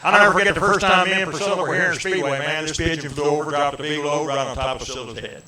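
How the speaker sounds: lightly voiced singer telling a Priscilla story; impression of a singer. Comedian doing a singer for the crowd, light hammed-up impression. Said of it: "'cause that's my name".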